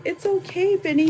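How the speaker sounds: lightly acted soothing parent; retold reassurance. Mom to son upset over missed bus, retold reassurance.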